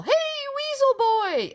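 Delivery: loud, high yelled greeting; high taunting yell at the lawyer. Retold or imitated. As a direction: shout it across the room to mock him. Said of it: "I yell".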